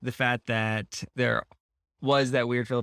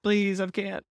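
put-on higher-pitched, half-hearted French accent; mock French accent; 6 semitones higher than usual. Prisoner making excuses about salt, in a mock French accent. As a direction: plead in a badly faked French accent. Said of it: "he would say in a French accent".

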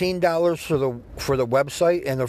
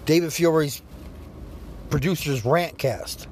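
announcing show name. Acted. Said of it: "That's what's it called from now on".

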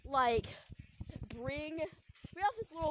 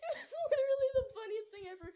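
laughing; 4 dB louder, faster than usual. Real, not acted. Laughing while retelling the funny scene.

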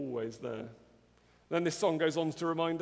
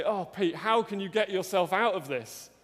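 higher, louder rallying of yourself; louder, higher self-pep-talk; self-reliant pep talk; 4 semitones higher, 5 dB louder than usual. Retold or imitated. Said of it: "Or I might say".

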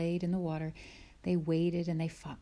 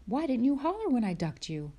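higher, louder curious father; Pa asking; 6 semitones higher, 4 dB louder than usual. Acted. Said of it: "he asked Laura".

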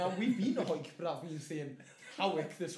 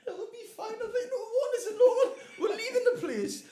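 high, loud, laughing protest; exasperated mock outburst through laughter; laughing re-enactment; 8 dB louder than usual. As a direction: act out the argument while cracking up. Acted argument, laughing throughout.

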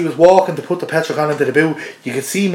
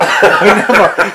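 laughing; 4 semitones higher, 3 dB louder, much slower than usual. Real, not acted. Laughing at own mistake.

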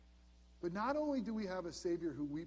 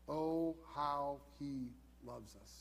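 slow, hushed wonder; tender slow awe; awed and tender; 3 semitones lower, much slower than usual. Real, not acted. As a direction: marvel at it, slowly. Awed exclamation of Christ's love.

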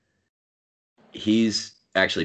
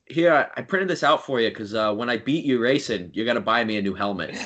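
coworker impression; 2 semitones higher than usual. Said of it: "It's like".

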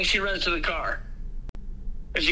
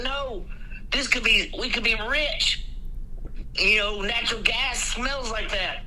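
higher, eager voice about getting rich; excited husband; 5 semitones higher than usual. Retold or imitated. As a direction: mimic a greedy husband getting worked up.

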